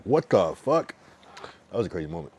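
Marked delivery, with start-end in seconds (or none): 0.0-0.9 shocked outburst. Retold or imitated. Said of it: "I'm like".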